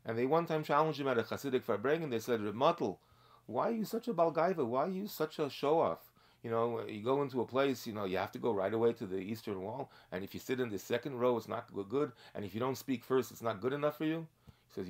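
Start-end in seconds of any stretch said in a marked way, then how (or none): 2.4-14.3 challenging a proud man, raised up and accusing; mock accusing challenge. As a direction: needle him about his pride. Chassidim challenge a haughty man.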